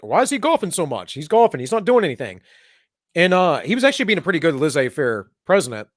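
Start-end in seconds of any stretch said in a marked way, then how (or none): 0.0-2.4 mocking the media. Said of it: "the media was like".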